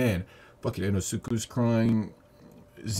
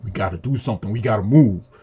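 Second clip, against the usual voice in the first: urgent retold rally; 9 dB louder than usual. Tanjiro urging Inosuke to get moving, urgent. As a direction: imitate a hero urging action, louder. Voicing a hero urging action.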